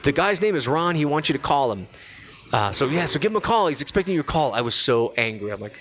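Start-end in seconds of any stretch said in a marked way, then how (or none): 0.0-4.5 high, cheerful mom voice; imitating mom, higher; insistent mom. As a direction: brush off his anger brightly. Mom insisting he call Ron.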